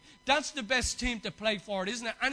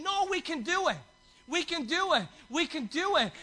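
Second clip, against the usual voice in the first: higher, louder cheering on the team; rally your mates, we can do it; 6 semitones higher, 5 dB louder than usual. Retold or imitated. Voicing an encouraging teammate.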